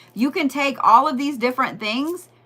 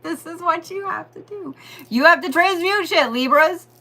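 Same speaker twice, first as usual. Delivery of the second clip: mock guru voice; 5 semitones higher than usual.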